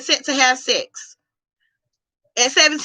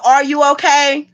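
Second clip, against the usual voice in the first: concerned asking; 2 semitones higher, 6 dB louder than usual. Retold or imitated.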